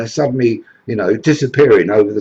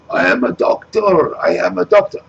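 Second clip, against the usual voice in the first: much higher, hopeful repeated answer; eager migrant; 10 semitones higher than usual. Acted. Migrant shouts up his skill to Farage, hammed-up eager. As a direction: call up your job eagerly.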